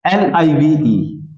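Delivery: slow letter-by-letter spelling. Shown as a demonstration. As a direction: spell each letter slowly. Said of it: "दोनों की spelling क्या है?".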